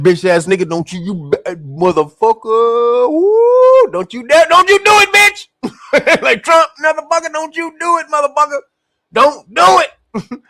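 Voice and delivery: high squealing don't you do it; mock warning. Israel warning Trump in a high squealing mock voice.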